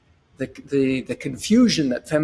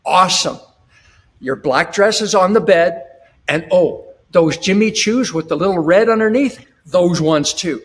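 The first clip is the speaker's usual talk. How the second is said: smiling confident husband. Retold or imitated. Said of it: "now you put the smile on".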